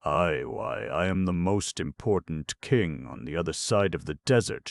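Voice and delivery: loud, boastful gnome; proud shout. Acted. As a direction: proclaim it grandly. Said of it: "shouted Ruggado".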